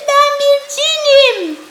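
slow, high, loud proclamation; booming spirit shout. Acted. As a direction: declare it like a mighty jinn. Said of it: "diye bağırdı".

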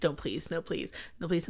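hushed begging under breath; quietly praying it's not; pleading whisper. Retold or imitated. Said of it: "and you're like".

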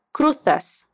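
"cruzas" said kruθas with th; z in "cruzas" as a Spain th; Castilian z. Shown as a demonstration. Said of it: "la palabra cruzas va a cambiar".

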